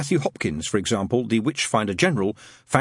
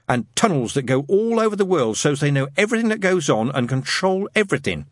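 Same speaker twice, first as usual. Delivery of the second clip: lightly voiced boy storyteller, emphatic; Adam, knowing schoolboy; 4 semitones higher than usual. Schoolboy explains secret masters to his friends, knowingly and emphatically. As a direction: stretch key words like a boy sharing secret lore.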